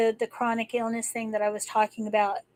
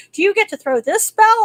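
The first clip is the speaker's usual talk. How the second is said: friend's excited question; 9 semitones higher, 8 dB louder than usual. Retold or imitated. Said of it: "and she's like".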